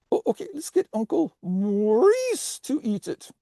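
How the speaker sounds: put-on high French-accented "Maurice"; terrible French accent. Potato salad volunteering an uncle to eat, high French accent. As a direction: say it in squeaky cartoon French. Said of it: "you have a terrible French accent".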